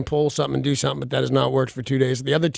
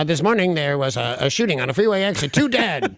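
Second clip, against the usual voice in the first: tiny newscaster. Retold or imitated. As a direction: imitate a cute little news reader delivering grim news. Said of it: "So they sound as small as they are".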